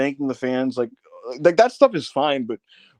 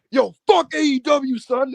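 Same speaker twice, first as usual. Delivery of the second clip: high-pitched retelling through laughter; laughing impression; 12 semitones higher, 4 dB louder than usual. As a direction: tell it while cracking up.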